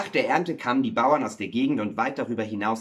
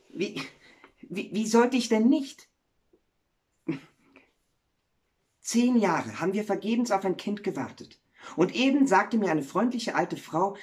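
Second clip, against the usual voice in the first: higher-pitched wife's voice; happy miller's wife; 6 semitones higher than usual. Acted. Wife tells the miller of a coming son, happily. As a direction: begin haltingly, then share the news in a high voice.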